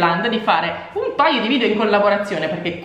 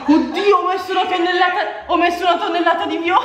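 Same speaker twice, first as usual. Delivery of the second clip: fast, laughing and higher; laughing panic; 7 semitones higher, faster than usual. Real, not acted. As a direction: laugh through the mistake. Spills too much purple dye. (panico ridendo)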